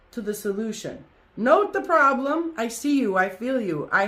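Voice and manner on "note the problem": firm command. Real, not acted. Commanding listeners.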